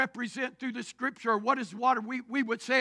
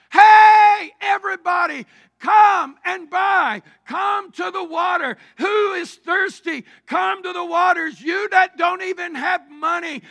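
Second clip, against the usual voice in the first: loud, higher southeast Missouri country call; folksy southeast Missouri crier; southeast Missouri holler; 5 semitones higher, 10 dB louder than usual. Acted. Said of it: "let's put it in southern, southeast Missouri vernacular".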